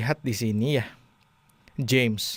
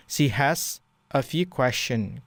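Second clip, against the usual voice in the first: slow model reading; much slower than usual. Shown as a demonstration. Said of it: "Questions itu pertanyaan".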